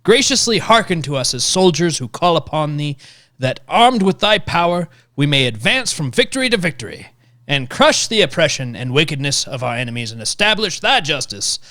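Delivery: put-on lightly Southern-accented prayer reading. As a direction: let a Southern accent creep back into the prayer. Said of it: "Went back to Southern".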